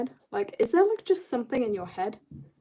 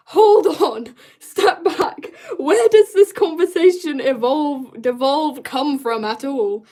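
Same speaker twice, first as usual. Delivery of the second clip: mock alarmed outburst; 4 semitones higher, 8 dB louder, slower than usual. Mock outrage at chat.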